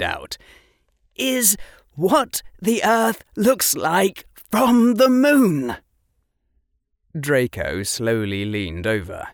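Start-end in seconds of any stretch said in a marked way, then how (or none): 1.1-5.8 trembling with pride. Acted. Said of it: "his voice trembling because he couldn't quite keep the pride".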